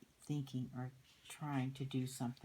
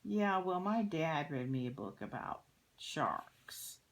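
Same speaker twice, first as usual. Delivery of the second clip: put-on boasting kid; 3 semitones higher, 4 dB louder, slower than usual. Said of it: "he's saying".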